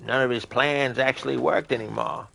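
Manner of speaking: a hint of a rambling old man. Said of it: "Thanks for redeeming the old man impression".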